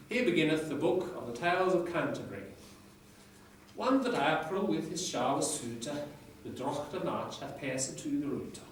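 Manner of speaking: reading Chaucer aloud in Middle English pronunciation. Shown as a demonstration. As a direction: recite it like a lecturer reviving Chaucer's English. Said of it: "I can't pronounce it as well as my lecturer in Middle English, but I'll give it a go".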